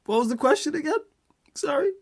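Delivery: high, squeaky voice fighting laughter; losing composure. Real, not acted. Streamer asking for the question again, losing composure. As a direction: try to talk while cracking up. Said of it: "Let me compose myself".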